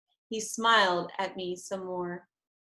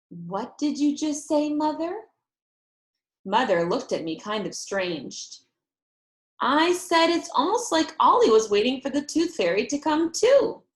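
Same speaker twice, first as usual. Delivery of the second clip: high, louder pressing question; eager realization; 5 semitones higher, 4 dB louder than usual. A narrator's reading. Girl pressing mother, dawning excitement. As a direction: push mother to repeat it.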